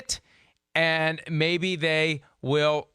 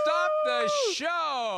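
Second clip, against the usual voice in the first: stretched-out, much higher celebratory shout; excited cheer; much slower than usual. Real, not acted. Co-host cheering his partner's correct pronunciation, in a slow, very high excited call. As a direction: crow with delight, drawing out every word. Cohost celebrates the name said right.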